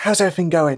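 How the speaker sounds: voiced mock whisper. In a role-play scene, a character addresses another, in a fake whisper voice. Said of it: "does the whisper voice, but doesn't actually whisper".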